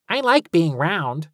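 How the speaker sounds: high, proud declaring; proud announcement. A narrator's reading. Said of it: "Talia announced".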